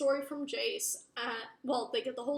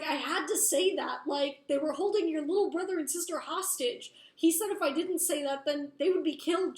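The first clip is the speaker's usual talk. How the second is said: higher, urgent retold protest; pleading self-defence; 3 semitones higher, 4 dB louder than usual. She explains herself to his angry siblings, urgent defensive retelling. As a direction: act out her insisting she had no choice.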